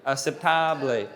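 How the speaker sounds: slow "Aceptable" with open "ah"; big-mouthed A. Shown as a demonstration. Teacher repeating, "Aceptable" with open Spanish "ah". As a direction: say "Aceptable" slowly with a wide "tah". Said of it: "with a big mouth".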